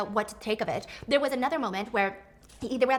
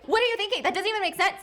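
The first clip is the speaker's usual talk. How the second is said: incredulous; 9 semitones higher than usual. Real, not acted. Exasperated at Lee's choice.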